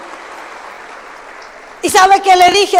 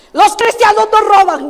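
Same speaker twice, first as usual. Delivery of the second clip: put-on little girl voice; 5 semitones higher, 3 dB louder than usual. Little granddaughter scolding.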